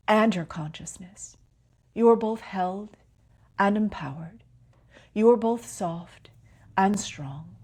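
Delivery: calm meditation guide with long pauses; unhurried phrases, each left to settle in silence; guided meditation. Real, not acted. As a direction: lead them gently inward, pausing between phrases.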